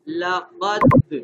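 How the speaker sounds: لقد drawn out very slowly with a strong, loud bounce on د; لقد with a long, ringing rebound; full qalqalah. Shown as a demonstration. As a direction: shake the final د of لقد hard. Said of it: "خوب ہلا کے پڑھا جاتا ہے".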